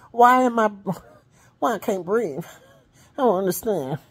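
high, loud panicked pleading; mock panic. Woman tells husband she can't breathe, high panicky plea. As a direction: reenact the scared plea to husband.

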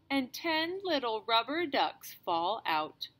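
gentle storybook reading voice; reading to children. Acted. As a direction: read aloud to a small child. Reads a picture book to a child.

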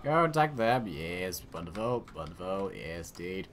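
lightly exaggerated British officer's accent; stereotypical British accent. Player directing troops against Romans, stereotypical British accent. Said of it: "stepped into my stereotypical British accent".

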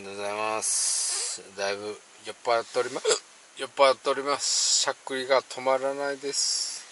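tipsy, hiccuping speech; slurring a bit, hiccups breaking in. Real, not acted. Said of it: "だいぶ酔っ払っております".

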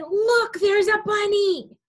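loud high call; loud example. Shown as a demonstration. Teacher showing kids the wrong loud way. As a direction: call it out too loud on purpose. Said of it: "you wanna be very quiet".

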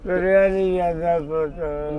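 real tearful complaint; crying. Real, not acted. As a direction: plead helplessly through tears. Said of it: "ਰੋਣਾ ਨਹੀਂ ਬਾਪੂ". (ਰੋਂਦੀ ਆਵਾਜ਼ ਵਿੱਚ)

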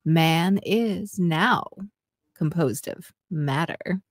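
sexy voice. Pretend. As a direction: read it like a slow seduction. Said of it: "in a sexy voice".

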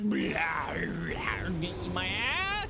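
mock bear roar. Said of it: "he's like".

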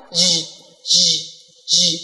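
"z" as a buzzing "zh" with rounded lips; rounded ZH sound. Shown as a demonstration. Teacher contrasting it with the previous sound, "z" said as rounded "zh". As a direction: curl the lips and buzz "zh". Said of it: "âm này mồm nó sẽ cong hơn một chút".

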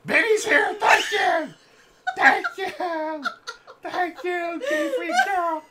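put-on drunk old gambler bear; croaky bear voice, slowed. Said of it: "You sound like a drunk old gambler".

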